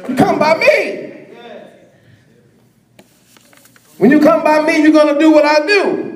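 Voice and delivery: rising, ringing preacher's call; preaching at full force. Acted. Preacher urging the congregation to follow him, full force. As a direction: drive it home to the congregation.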